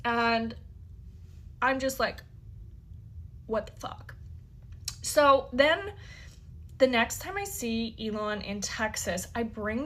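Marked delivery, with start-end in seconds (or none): 3.5-4.2 breathy whispered what the fuck; whispered disbelief. Retold or imitated. Hearing a friend want Elon's kids, whispered stunned disbelief. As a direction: mouth it almost silently, stunned. Reacting to friend's baby request.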